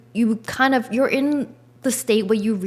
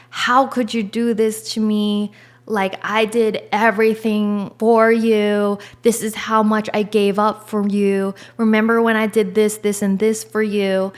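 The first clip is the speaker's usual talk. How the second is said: hurt, rising indignation, a bit louder; angry accusing rant; 4 dB louder than usual. Pretend. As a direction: pile up the grievances at the ex. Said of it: "And it just makes you angry".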